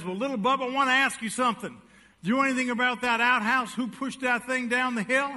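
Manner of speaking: a father probing his son, mildly stern; a hint of a stern father. Father questioning his son about the outhouse, lightly voiced stern.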